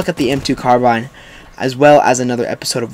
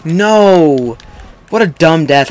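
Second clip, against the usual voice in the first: higher, drawn-out protest; dismayed cry; 3 semitones higher, 4 dB louder, much slower than usual. Real, not acted. Gamer after a dumb death, dismayed cry. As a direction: wail it out in frustration. Dies at end of game.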